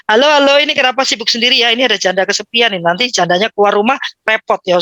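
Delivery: put-on fast joking call to the kids; teasing call. A mother teasing her busy kids she's a lonely widow, fast. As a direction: tease them like a playful mom. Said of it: "saya teriak-teriak".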